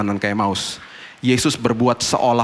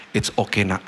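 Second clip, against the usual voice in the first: tender reassurance; 2 semitones lower, 3 dB quieter than usual. Retold or imitated. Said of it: "dia akan bilang gini".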